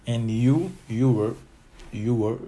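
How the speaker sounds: répétition forte de "you were", comme en classe; loud drill. Shown as a demonstration. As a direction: articule "you were" haut et fort pour les élèves. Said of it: "drilling contractions aloud". (voix de prof qui fait répéter, forte)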